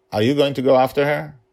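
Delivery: quick, high villain voice; lightly voiced curious emperor; cold rasping evil emperor. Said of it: "The Emperor said".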